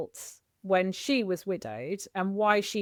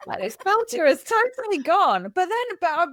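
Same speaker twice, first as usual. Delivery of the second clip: higher and louder, still laughing; 9 semitones higher, 6 dB louder than usual. Real, not acted. Host still amused by her mum, laughing through words. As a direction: talk through the last of the laugh.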